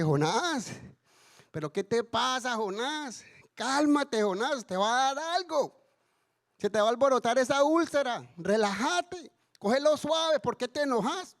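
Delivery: lightly acted amused chiding, no actual laugh; amused God. God teasing an enraged Jonah to relax, amused. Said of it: "el Señor riéndose le dice".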